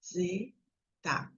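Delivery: very soft, slow, one syllable at a time; whispered syllabic reading. Shown as a demonstration. Teacher showing a child reading to herself, hushed syllable by syllable. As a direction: murmur it to yourself in separated syllables. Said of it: "essa leitura sussurrada".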